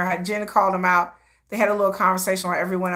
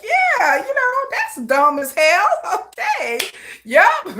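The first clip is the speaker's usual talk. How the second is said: affable Jin impression; 9 semitones higher, slower than usual. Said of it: "be like".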